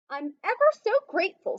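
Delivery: rushed, fast thanks; hurried. Acted. Mouse thanking Tortoise, hurried and rushed. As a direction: gabble it out, eager to leave. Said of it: "said Mouse in a hurried voice".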